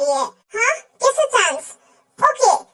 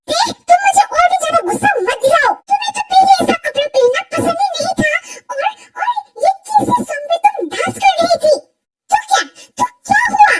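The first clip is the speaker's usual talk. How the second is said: angry quarrel; 4 semitones higher than usual. Acted. Jealous quarrel over dancing.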